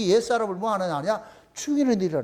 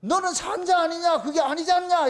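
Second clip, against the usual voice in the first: higher-pitched mock scolding; acted rebuke; 5 semitones higher than usual. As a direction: reprove like the Lord correcting someone. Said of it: "이렇게 책망할 때가 와". (나무라듯 높은 목소리로)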